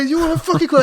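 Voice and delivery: high, loud, sneering drill sergeant yell; mocking drill sergeant. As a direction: berate a recruit in front of everyone. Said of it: "You're like".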